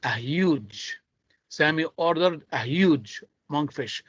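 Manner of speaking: "huge" picked out with clear stress. Shown as a demonstration. Teacher stressing the adjective for students, weight on "huge". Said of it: "I'm stressing on the adjective here".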